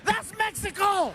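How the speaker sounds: high, bright exclamation of recognition; spring the punchline up high; realizing it's home all along; excited reveal. Acted.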